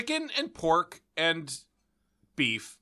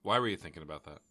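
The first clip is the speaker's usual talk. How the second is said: whispering; 10 semitones lower, 8 dB quieter, much faster than usual. Real, not acted. Baffled whispered question.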